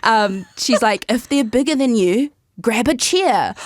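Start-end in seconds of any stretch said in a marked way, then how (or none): 1.1-2.3 put-on Filipino mum's Asian accent. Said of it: "in her Asian accent". 2.6-3.6 put-on Asian accent. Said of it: "in her Asian accent".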